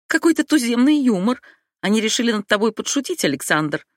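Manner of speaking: high, nervous, laughing it off. Acted. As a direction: brush it aside with a shaky chuckle. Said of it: "нервно рассмеялась Абигейл".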